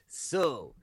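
slow, grimy, lightly voiced leer; a touch of sleazy Van Damme, slowed way down; creepy Van Damme. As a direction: drag it out like a creepy star, a hint of menace. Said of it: "in the most grimy, sh-, creepy way".

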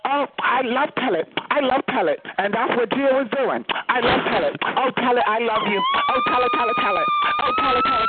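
high-pitched gushing mock girl voice; shrill catty stepsister. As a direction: squeal the name like a fawning fake friend. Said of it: "And the bitch could say".

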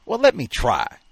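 loud, stubborn plea; insisting. A narrator's reading. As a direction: dig in and insist. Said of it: "Keys kept insisting".

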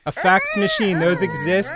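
cut by fax screech. Retold or imitated. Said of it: "Sounds like a dying cat".

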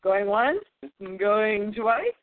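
slow, drawn-out auction call; auctioneer. Pretend. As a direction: close the sale like an auctioneer. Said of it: "Are you an auctioneer?".

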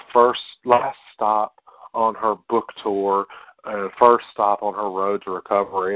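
mock-dramatic, measured delivery. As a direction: draw out the opening words for drama. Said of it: "It's very, very, uh, very dramatic".

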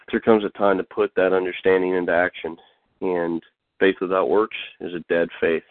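plain, subdued petition to God; spoken prayer. Real, not acted. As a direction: pray simply, in short paused phrases. Leads a prayer.

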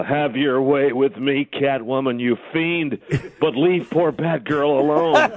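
slow, lightly voiced Adam West Batman; a hint of the stiff sixties Batman, drawn out slow; mock Adam West as Batman, slowed right down; Adam West impression. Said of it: "I could just hear Adam West saying".

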